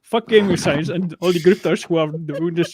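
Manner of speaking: mock Indian accent rant; put-on Indian accent, mock-indignant; angry Indian accent. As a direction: carry on the parody reading in an Indian accent. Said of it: "he'll be like".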